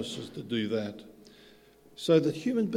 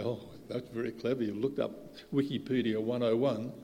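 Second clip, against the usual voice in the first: sarcastic mock praise; 5 dB quieter than usual.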